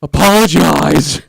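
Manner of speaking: loud, slow, drawn-out mock emphasis; Chris Farley. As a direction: bellow it with comic overemphasis. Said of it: "I'm putting the Chris Farley quotations around this".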